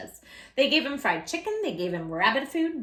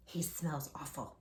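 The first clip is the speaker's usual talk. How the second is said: disgusted mother; 7 semitones lower, 14 dB quieter than usual. Acted. Mother voiced in story.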